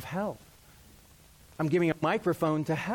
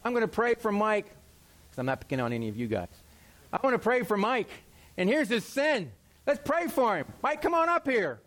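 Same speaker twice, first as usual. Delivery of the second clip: raised, pulpit-style call-out, lightly hammed; mock pastor; 4 semitones higher than usual. Preacher calling a congregant up front, hammed-up. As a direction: playfully shame Mike from the pulpit.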